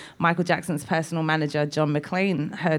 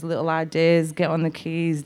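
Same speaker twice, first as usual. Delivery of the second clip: normal talking voice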